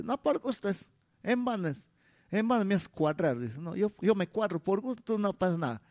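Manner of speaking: leve imitación aguda de la ñaña que reniega; ñaña renegando. Retold or imitated. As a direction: quejarse como la ñaña, poco marcado. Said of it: "Así reniega la ñaña". (ñaña renegona, apenas actuada)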